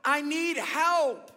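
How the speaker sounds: high, loud holler; storyteller's shout for help; yelled call for help. Retold or imitated. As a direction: yell it out down a mountainside, each word drawn out. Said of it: "he yelled out there".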